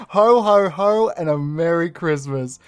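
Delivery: loud, high Santa laugh; belly out a big Santa ho ho ho; jolly ho ho ho. Acted. Santa-costumed host greeting.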